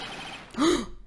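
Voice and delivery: high acted gasp; dramatic gasp. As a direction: gasp in mock alarm. Client's outburst begins.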